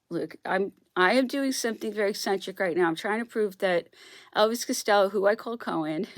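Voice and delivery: usual speaking voice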